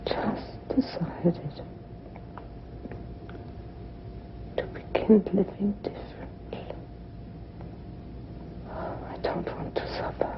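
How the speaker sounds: weak whisper. Acted. Dying woman whispers.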